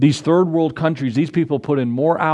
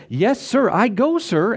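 mock obedient son; 7 semitones higher, slower than usual. Second son's fake obedience.

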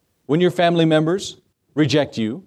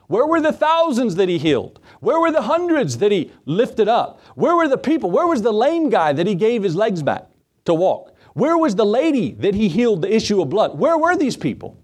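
rising preaching; 4 semitones higher than usual. Real, not acted. Preacher builds rhetorical questions.

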